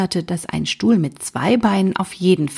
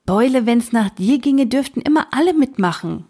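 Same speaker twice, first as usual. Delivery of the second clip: higher, whiny grumble; grumbling; 5 semitones higher than usual. Acted. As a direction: moan it, sulky and higher. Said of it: "maulte Hosenmann".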